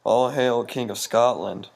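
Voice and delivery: lightly voiced witch, slow drawn-out words; witch's hailing. A witch hails Macbeth after the battle, slow mock proclamation. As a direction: intone it slowly as a mock proclamation.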